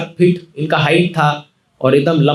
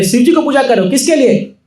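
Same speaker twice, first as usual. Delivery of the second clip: teasing; 6 semitones higher than usual. Acted. नटखट निमाई माताओं को छेड़ता.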